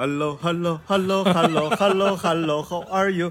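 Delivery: put-on affected, showy English accent. Imitating a man who answers the phone in showy English: imitating affected put-on English. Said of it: "有点装的那种英语".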